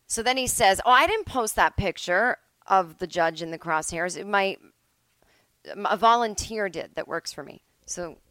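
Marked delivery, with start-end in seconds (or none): 0.9-7.6 loud, whiny excuse-making defendant; mock defendant brushing off blame. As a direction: play him squirming out of blame, loudly. Defendant voiced excusing himself.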